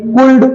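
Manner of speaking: cooled said "koold", the wrong reading of could; wrong reading demo. Shown as a demonstration. Teacher to class, showing the wrong reading. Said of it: "no, it's not cooled".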